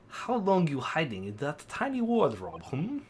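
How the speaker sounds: put-on Russian accent; amateur Russian interrogator accent. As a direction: question a suspect in Russian-accented English. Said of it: "Oh, he's Russian".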